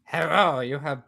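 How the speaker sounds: put-on Chinese accent. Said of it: "could do a Chinese accent".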